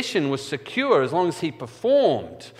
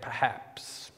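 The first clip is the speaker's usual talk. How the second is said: whispered perhaps; 11 dB quieter than usual. Real, not acted. Doubting aside about forgiveness.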